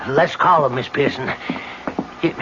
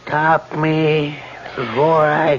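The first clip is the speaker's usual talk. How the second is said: ominous reading; 2 semitones lower, slower than usual. Acted. Reading the scrawled message.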